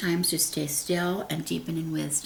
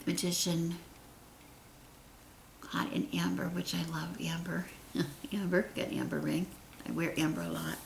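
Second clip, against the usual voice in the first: whisper; 3 semitones lower, 13 dB quieter than usual. Real, not acted. Quiet aside about amber.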